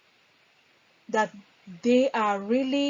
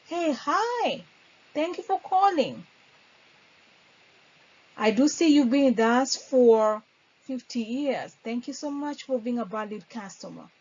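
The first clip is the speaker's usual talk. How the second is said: welcoming greeting; 3 dB louder than usual. Shown as a demonstration. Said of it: "make sure the customer feels important".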